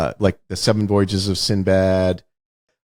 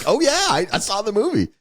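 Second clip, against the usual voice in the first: high, breezy impersonation; lightly voiced blasé actor; mock casual actor; 10 semitones higher than usual. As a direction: toss it off like a bored star. Mocking an actor's casual reply.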